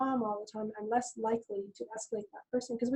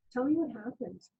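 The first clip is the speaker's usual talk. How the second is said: gentle invitation. Retold or imitated. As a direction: invite him to talk kindly. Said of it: "I said it, you know, like that".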